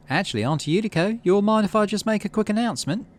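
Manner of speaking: put-on a young woman asking the elders politely; Utopia's voice. Narrator voicing Utopia asking her aunt for the floor.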